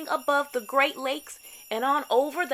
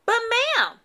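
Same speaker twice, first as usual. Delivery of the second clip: higher, flustered protest; blustering Santa; 11 semitones higher, 6 dB louder than usual. A narrator's reading. Santa blustering at the bossy sat-nav, flustered. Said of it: "Santa blustered".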